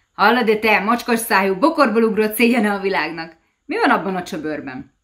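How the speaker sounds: loud, high devilish jeering; mock-friendly insult. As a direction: bellow the insults at the fisherman with fake friendliness. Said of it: "igaz barátsággal". (hangos, gúnyos ördögi kiabálás)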